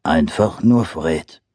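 low slow bear growl. Acted. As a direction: rumble it like a big bear. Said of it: "brummte der Bär".

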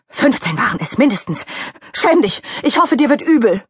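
high, insistent reproach; relentless scolding. Acted. Mickey Kuchen wishing Donald Rabbit sick, scolding. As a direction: keep hammering the accusation. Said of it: "ließ nicht locker".

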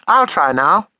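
put-on high eager little girl; child voice. Taffy copying her father's drawing: high eager child voice.

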